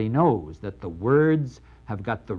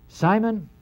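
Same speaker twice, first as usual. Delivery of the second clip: stern address; 9 semitones higher than usual. Acted. Jesus confronting his host.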